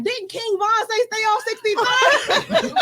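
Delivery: mock question laughing; laughing quote. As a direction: tease him through laughter. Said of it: "And I was like".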